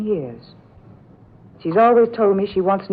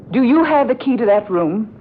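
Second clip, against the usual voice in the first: louder, pressing demand; insistent demand; 5 dB louder than usual. Acted. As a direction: press her hard for an answer.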